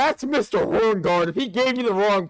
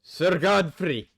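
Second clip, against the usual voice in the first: revenant leader addressing his brothers; 2 semitones lower than usual. Acted. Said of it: "And he says".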